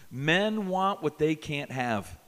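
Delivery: slow and deliberate; slow teaching line. Shown as a demonstration. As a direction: spell it out slowly for them. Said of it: "Say that with me".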